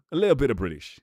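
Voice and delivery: a touch of British, tossed off; lightly put-on British accent. Shown as a demonstration. Streamer giving chat a taste of British, light accent. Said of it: "You need the British out of me".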